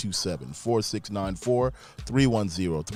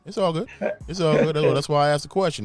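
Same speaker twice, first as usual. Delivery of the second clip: excited; 7 semitones higher, 5 dB louder than usual. Real, not acted. Host reassuring the guest loudly.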